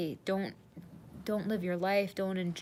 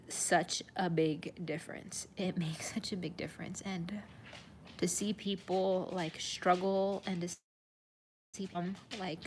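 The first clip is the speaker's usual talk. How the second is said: choked up, pausing between phrases; emotional. Real, not acted. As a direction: let real emotion hush the voice. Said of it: "sorry, I'm getting emotional".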